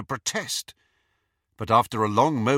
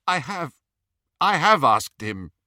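desperate plea; 6 semitones higher, 6 dB louder than usual. A narrator's reading. Snape pleading desperately.

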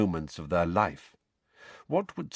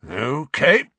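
tense, raised-pitch acknowledgement; forced calm; 7 semitones higher, 6 dB louder than usual. A narrator's reading. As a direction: hold the calm with effort. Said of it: "in a voice of forced calm".

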